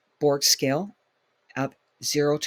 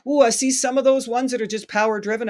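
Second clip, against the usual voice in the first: surprised; 7 semitones higher, 5 dB louder than usual. Real, not acted. Reacting to power treadmills.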